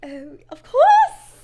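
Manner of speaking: loud, drawn-out posing as British; British accent. Shown as a demonstration. Answering whether it's British, in a drawn-out British accent. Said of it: "Is that one British?".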